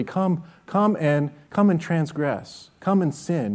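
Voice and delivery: slow, soft mock invitation; slow sarcastic beckoning. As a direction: invite them to sin with irony. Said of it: "Amos says sarcastically".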